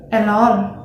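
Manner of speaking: 'elon' with a clear L in place of R; Thai-accented 'elon', L instead of R. Shown as a demonstration. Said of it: "In Thai accent, this word is pronounced as".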